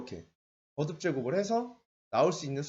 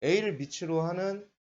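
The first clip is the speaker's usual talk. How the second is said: slow, drawn-out reading, pitched up; laboriously full read-out, raised and slow; long-winded reading; 4 semitones higher, 3 dB louder, much slower than usual. Shown as a demonstration. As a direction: stretch out the formal reading to show its length. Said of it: "이렇게 읽질 않아요".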